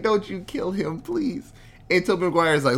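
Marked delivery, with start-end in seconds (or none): 0.0-1.5 high mock plea; hammed-up begging, climbing high at the end; mock pleading. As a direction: beg in a raised voice. Recalls pleading at the screen.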